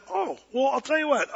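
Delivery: a hint of a dad with a ready answer; mildly acted fatherly comeback; dad's reply. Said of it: "And my dad said".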